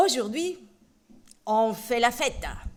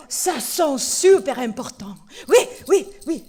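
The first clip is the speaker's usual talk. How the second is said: puppet voice; 8 dB louder than usual. Acted. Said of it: "Ça, c'est Tolo".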